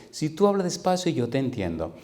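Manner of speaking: a hint of a woman struggling with Spanish; imitated Portuguese woman. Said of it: "Ella hablaba poquito español y me dice".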